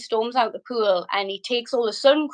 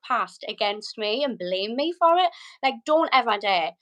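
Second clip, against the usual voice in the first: retold indignant telling-off, pitched up at first; indignant outburst. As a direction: tell him off as if reliving the row. Retelling her confrontation before the slap.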